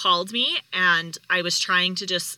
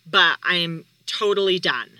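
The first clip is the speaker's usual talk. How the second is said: half-shouted, louder, upset rant; mock-yelling that she's going home; retold yell; 2 semitones higher, 5 dB louder than usual. Wife snapping at her husband on the phone, a retold yell. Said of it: "I'm, like, yelling at him and in tears".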